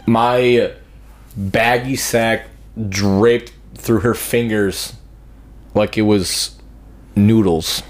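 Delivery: slow, drawn-out words; slow comic drawl. Real, not acted. Describing the nurse exam slowly for comic effect. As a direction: stretch each word for the joke.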